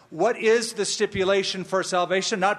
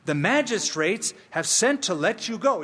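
a touch higher, imitating an eager messenger; mildly excited; 4 semitones higher than usual. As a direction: deliver the news with mock excitement. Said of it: "He's probably saying it all excited".

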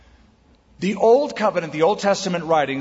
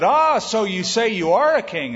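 higher, exclaimed "Ah" into a probing question; questioning Pilate; 5 semitones higher, 3 dB louder than usual. Acted. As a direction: pounce on the admission with a raised pitch. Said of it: "And then Pilate said".

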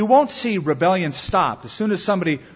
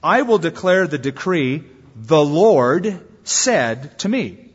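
slow, louder voice of the Son declaring; a change of voice; 4 dB louder, slower than usual. Acted. Preacher reading the Son's voice from the psalm, slow. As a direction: read it as the Son proclaiming, slowly. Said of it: "there's a change of voice here".

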